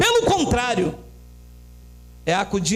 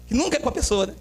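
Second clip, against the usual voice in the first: usual speaking voice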